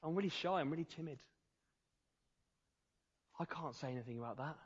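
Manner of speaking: voicing an oppressed, timid believer, very soft; mock shy voice. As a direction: say it like a shy person hiding away. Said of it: "things that oppress us".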